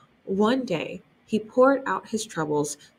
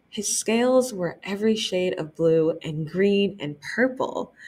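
gentle read-aloud narration; children's librarian reading aloud; story narration. A narrator's reading. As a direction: read it like story time for kids. Reading the picture book aloud.

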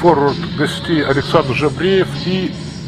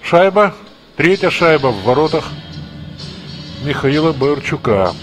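excited hockey goal call. Real, not acted. Goal scored in hockey broadcast.

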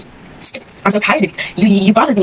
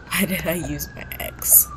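soft whispered muttering; whispered aside; 6 dB quieter than usual. Real, not acted. Gamer whispering to herself while playing. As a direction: say it under your breath.

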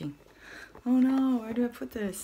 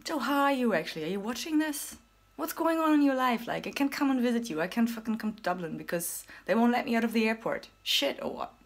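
excited shout-out; 5 semitones higher, 4 dB louder than usual. Real, not acted. Calling out to friend Joe.

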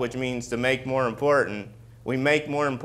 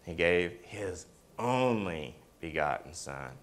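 softer and lower, reverent; quiet reverent answer; hushed answer; 6 semitones lower, 8 dB quieter than usual. Real, not acted. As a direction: drop to a hush for the verse. Answers own prompt softly.

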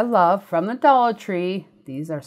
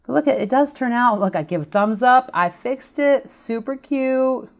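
excited; 6 semitones higher, 5 dB louder than usual. Real, not acted. Proud reveal of fixed piece.

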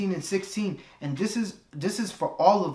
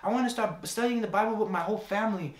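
excited woman; 6 semitones higher than usual. Retold or imitated. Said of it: "She's like".

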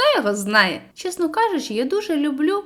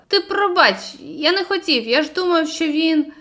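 sheepish apology; 4 semitones higher than usual. Acted. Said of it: "винувато всміхнувся і сказав".

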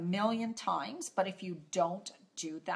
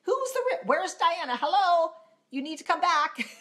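much higher, mock-alarmed nagging voice, laughing at the end; voice of the subconscious; 9 semitones higher, 4 dB louder than usual. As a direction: play your panicking inner self begging you back. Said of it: "'Cause, like".

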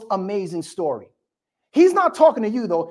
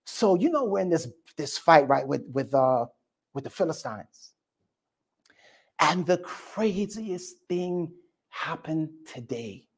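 lower, softer storytelling father; dad recounting the battle to mom, low and hushed; low quiet dad; 6 semitones lower, 6 dB quieter than usual. Retold or imitated. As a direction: lean in and confide. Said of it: "dad's like".

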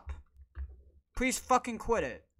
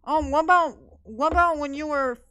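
mocking critic; 3 semitones higher than usual. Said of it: "And people may say".

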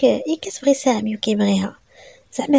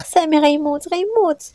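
crying, sobbing; 6 semitones higher than usual. Acted. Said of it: "انا كنبكي وكنشهق".

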